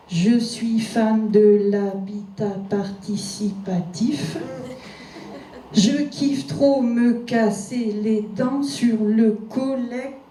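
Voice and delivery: very slow, measured syllable-by-syllable verse; drawn-out parody of a twelve-foot line; mock alexandrine recitation. Shown as a demonstration. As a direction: count out each syllable like pompous poetry. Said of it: "Tiens, des alexandrins, par exemple. Douze pieds répétés inlassablement".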